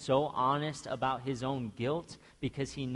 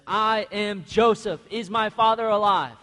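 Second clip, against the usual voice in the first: Joseph revealing himself; 5 semitones higher, 8 dB louder than usual. Retold or imitated. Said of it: "Joseph says".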